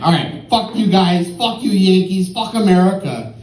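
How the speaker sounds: mildly acted bouncer who has had enough; fed up. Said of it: "he's fed up".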